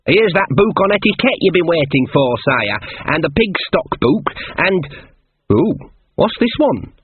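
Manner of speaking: high, chatty servant turning curious; eager helpful Shawn. Acted. Shawn unwraps the king's books, eagerly curious. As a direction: hand things over, then get intrigued.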